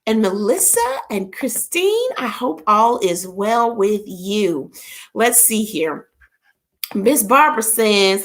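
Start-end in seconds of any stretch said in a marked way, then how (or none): none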